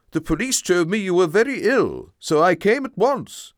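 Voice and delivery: lightly voiced concerned father. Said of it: "explained my father".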